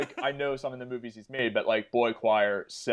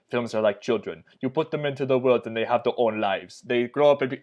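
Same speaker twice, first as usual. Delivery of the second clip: a hint of a French accent, quoting the director; half-hearted French accent, read aloud like an interview; lightly put-on French accent. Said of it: "I don't know what accent I'm doing".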